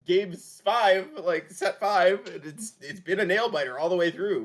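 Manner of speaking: high, loud caster excitement; excited hype. Real, not acted. Caster hyping a nail-biter series, high-pitched excitement. Caster hypes deciding game five.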